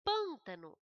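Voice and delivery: teacher calls out Pântano to show its stressed syllable; word called out. Shown as a demonstration. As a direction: call out Pântano, leaning on pân. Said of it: "Aqui nós temos um acento circunflexo".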